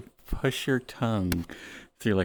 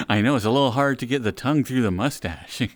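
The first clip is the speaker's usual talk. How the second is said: laughing; faster than usual. Real, not acted. Laughing through the line.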